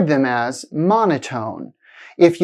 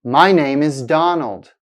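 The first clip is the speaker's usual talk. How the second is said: a plain statement falling in pitch on "Donald"; falling intonation. Shown as a demonstration. Teacher models a statement for learners to repeat, falling intonation. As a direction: let "Donald" drop at the end. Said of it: "sounds like a fall in the pitch".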